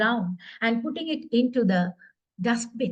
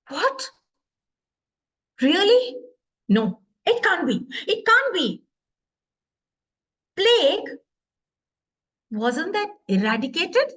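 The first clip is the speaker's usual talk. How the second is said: Doctor Seth shocked; 3 semitones higher, 4 dB louder than usual. Acted. Doctor hearing it is plague, loud and shocked. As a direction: react in shock to terrible news. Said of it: "talking to that ambulance guy loud".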